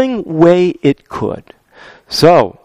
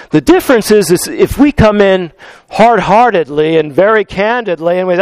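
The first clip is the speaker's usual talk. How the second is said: normal talking voice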